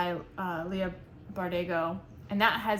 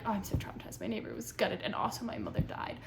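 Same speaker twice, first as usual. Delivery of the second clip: mock blasé tone; 5 dB quieter, faster than usual. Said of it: "don't be like".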